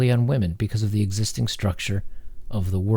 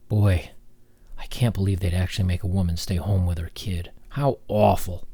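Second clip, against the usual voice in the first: mock-appalled, deadpan; sarcastic dismay; 3 semitones lower than usual. Commentator mocking a complaint about staying home, sarcastic. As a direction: feign dismay with dry sarcasm. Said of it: "I'm being very sarcastic".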